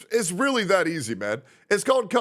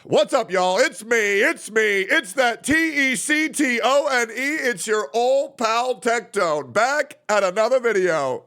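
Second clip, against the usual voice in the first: loud, hyped YouTuber greeting, slower on the name; old cringe intro; 6 semitones higher, 3 dB louder, slower than usual. Retold or imitated. Streamer replays his old cringey video intro, loud and hyped. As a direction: belt it like a cheesy old channel intro. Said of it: "I had one back in the day where I said".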